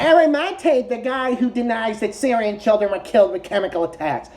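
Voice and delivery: hint of a mocking put-on voice; Anna. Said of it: "That's my impression of you".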